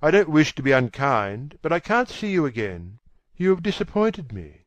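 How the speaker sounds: brisk, clear, composed dismissal; calm, clear. A narrator's reading. Dorian leaves the weeping actress, calm clear brisk dismissal. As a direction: break it off quickly and firmly, keeping composure. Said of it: "in his calm, clear voice".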